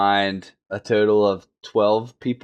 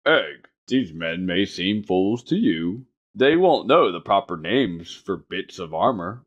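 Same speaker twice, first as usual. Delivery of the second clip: measured, deliberate reading as a knight counselling a squire; story narration. Acted. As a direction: read it out like an audiobook, pausing between phrases. Reads the book quote aloud.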